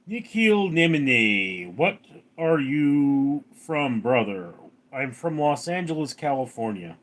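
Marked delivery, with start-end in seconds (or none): 0.1-4.5 slow, lightly put-on Russian accent reading a viewer's name; mock Russian accent. Streamer greets a viewer in a mild Russian accent. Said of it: "That accent switch was crazy".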